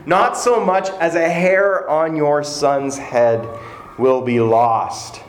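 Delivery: slow, deliberate, each word weighed; slow solemn vow. Acted. King repeating his vow to the woman, slow and grave. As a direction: linger on the words like scripture. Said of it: "This was the epic climax of that encounter".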